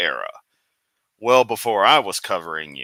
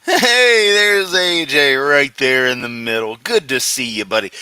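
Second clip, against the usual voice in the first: excited greeting; 4 semitones higher, 6 dB louder than usual. Real, not acted. Spotting AJ on screen.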